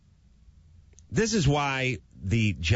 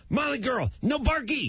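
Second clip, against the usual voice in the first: put-on higher baby talk to the dog; 13 semitones higher, 3 dB quieter than usual. Shown as a demonstration. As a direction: coo at the dog. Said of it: "that she understand".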